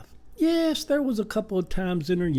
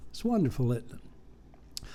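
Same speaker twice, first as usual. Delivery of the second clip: whisper; 3 semitones lower, 7 dB quieter than usual. Acted. Confiding question to viewers.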